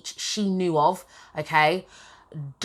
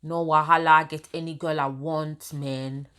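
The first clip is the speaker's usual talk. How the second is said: bad Nigerian accent. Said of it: "not good with Nigerian accent".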